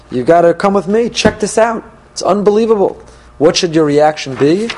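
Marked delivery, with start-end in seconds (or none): 0.1-3.0 lightly acted, rising excited urging; a hint of a higher, enthusiastic pitch; eager enticer. Enticer urging a friend along, lightly excited.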